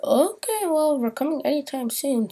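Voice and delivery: high, lightly voiced teasing of the worker lady; a touch of sing-song warning; mock worker lady. Worker lady warning that they are coming soon, high teasing voice. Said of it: "she's like".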